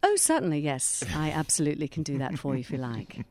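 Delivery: crisp upper-class English voice; posh British accent. Shown as a demonstration. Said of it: "Can you give us a bit of that?".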